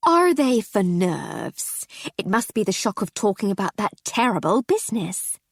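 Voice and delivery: fussy concerned hostess; gushing society lady. Acted. Mrs Seddon gushing.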